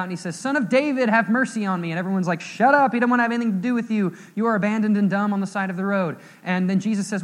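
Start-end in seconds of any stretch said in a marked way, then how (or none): 0.3-1.9 raised, higher imitation of a plea; louder retold cry for mercy. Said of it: "he's crying out". 2.4-6.2 loud, high, mock-angry rebuke; fast, forceful dismissive telling-off; scolding crowd. Crowd silencing the beggar.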